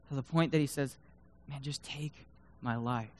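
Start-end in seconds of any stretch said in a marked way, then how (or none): 1.5-3.1 soft, mildly despairing plea; understated defeat; broken and tired. Acted. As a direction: surrender quietly to God, voice sinking. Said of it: "And he's broken".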